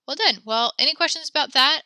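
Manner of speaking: excited teacher praise; bright praise. Real, not acted. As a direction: lift the voice to reward them. Praising class, voice jumps up.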